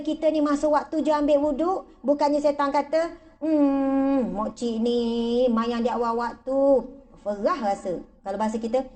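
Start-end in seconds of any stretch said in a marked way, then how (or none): 3.4-8.0 Satan mocking.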